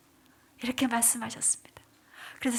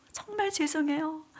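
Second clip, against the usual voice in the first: tearful apology; 4 semitones higher than usual. Retold or imitated. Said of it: "울면서 기도하는데".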